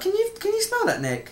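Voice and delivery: hammed-up panic in the reading; mild panic on fire. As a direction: sniff the air in mock alarm. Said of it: "reading like someone on fire".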